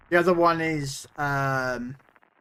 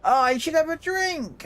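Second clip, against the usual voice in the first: put-on drunk punter; 13 semitones higher than usual. Drunk punter offers drink.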